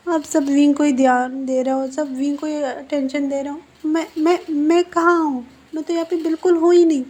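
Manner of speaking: rising into a high, loud wounded protest; upset outburst. Acted. Son complains to his mother that everyone ignores him, rising upset outburst. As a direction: let it build until it cracks into a complaint.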